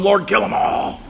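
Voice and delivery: fed-up cry to God; a mock Moses blowing his top; exasperated outburst. Preacher voices Moses done with his people, exasperated outcry.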